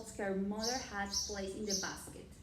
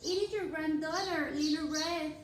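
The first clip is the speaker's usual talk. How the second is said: higher, quick fake girl voice; wolf faking girl voice; 4 semitones higher than usual. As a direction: pretend to be the granddaughter. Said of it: "the wolf said".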